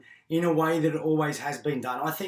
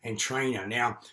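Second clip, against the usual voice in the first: hoarse voice. Real, not acted. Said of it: "So excuse my voice, I've just had bronchitis".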